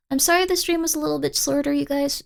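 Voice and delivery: drowsy, slurred words; slurred apology. Real, not acted. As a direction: slur it sleepily. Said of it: "I'm slurring my words".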